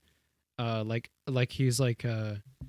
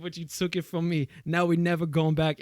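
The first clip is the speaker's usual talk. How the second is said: mock angry rapper; 4 semitones higher than usual. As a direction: rant high at the hat thief, petty and hurt. Continuing the acted rap.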